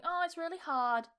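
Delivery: mildly whiny learner's moan; lightly mocked whining; whiny complaint. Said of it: "if you're being whiny and you're bitching".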